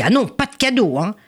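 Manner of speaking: high-pitched cross refusal; cross mother. Acted. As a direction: refuse firmly as an annoyed mother. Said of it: "quand même fâchée, dit". (mère fâchée, voix aiguë)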